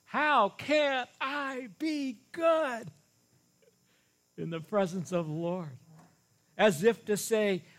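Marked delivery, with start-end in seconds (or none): 0.1-5.8 each word of "How can I be good" weighted evenly, very slow and high; every word stressed. Shown as a demonstration. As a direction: stretch out all five words, one by one. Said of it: "is there emphasis on all five of the words?".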